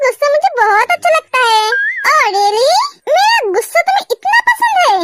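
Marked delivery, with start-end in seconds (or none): 3.1-5.0 teasing mock anger. Teasing threat to wife.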